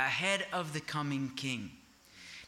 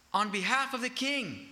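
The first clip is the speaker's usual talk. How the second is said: a hint of a herald's proclamation; town crier; 6 semitones higher than usual. Herald reading the king's scroll, a light proclamation. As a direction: announce it for the king. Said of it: "Or a town crier".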